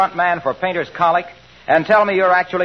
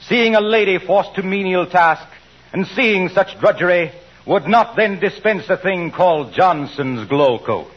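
hammy stage actor. Acted. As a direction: overblown theatrical recitation. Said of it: "Go on, Mister Wilcox".

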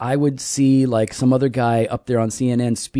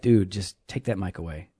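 muttered aside; 6 semitones lower, 10 dB quieter than usual. Retold or imitated. Muttered reaction to Falwell speaking.

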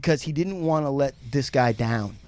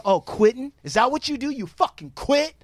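high mocking taunt; 8 semitones higher than usual.

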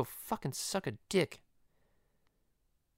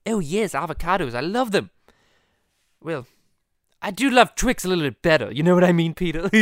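lightly pitched-up cartoon character voice; Stewie; 2 semitones higher, 3 dB louder than usual. Stewie telling Peter which candy he prefers, cartoon voice. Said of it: "the Stewie and Peter podcast".

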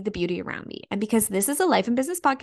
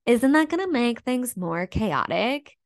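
slow, lightly mocked skeptical question; doubting naysayer voice; slower than usual. People questioning her choice, in a lightly mocked doubting voice. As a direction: imitate a doubter, stretching the words a little. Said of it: "as I'm saying this in this voice".

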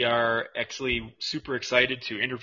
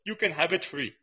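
higher, louder broken-English shopkeeper voice; hot dog vendor character; 10 semitones higher, 5 dB louder than usual. Acted. Vendor taunting the customer, higher and louder in broken English. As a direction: haggle like a cheeky street vendor.

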